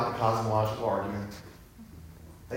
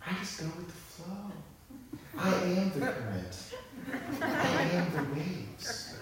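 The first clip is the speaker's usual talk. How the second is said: go-with-the-flow type; 8 semitones higher, 5 dB quieter, slower than usual. Retold or imitated. Mocking half-full optimists.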